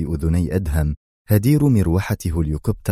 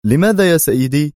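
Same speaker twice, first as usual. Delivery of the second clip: higher, louder astonished why; surprised question; 8 semitones higher, 5 dB louder than usual. A narrator's reading. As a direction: ask in surprise. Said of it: "سأله بيرت في دهشة".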